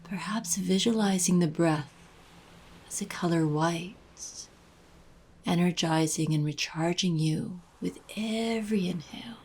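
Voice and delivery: unhurried guided meditation voice, long pauses between phrases. Acted. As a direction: gently guide the listener into breathing and release.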